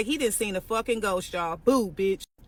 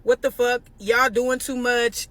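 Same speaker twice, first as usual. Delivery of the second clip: angry friend; 4 dB louder, slower than usual. Retold or imitated. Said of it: "She's like".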